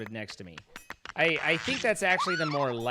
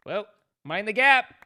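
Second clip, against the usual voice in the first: British catchphrase; 7 semitones higher, 11 dB louder than usual. Pretend.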